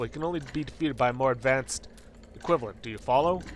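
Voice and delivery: grand, pedantic cosmic being; End of Time. Acted. Cosmic being teaching the player, grand instructive voice. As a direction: pronounce it like an oracle giving a lesson.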